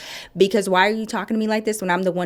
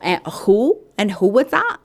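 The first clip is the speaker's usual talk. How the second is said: jealous girlfriend mock; 3 semitones higher, 4 dB louder, slower than usual. Mocking the receptionist grilling her husband. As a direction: question him like a jealous girlfriend. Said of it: "she was questioning her man".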